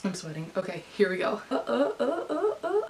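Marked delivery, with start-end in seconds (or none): 1.5-2.8 rising, nervous "uh" sounds; nervous panting squeals. Real, not acted. About to open the itinerary, nervous rising noises. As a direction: let nervous little noises climb higher.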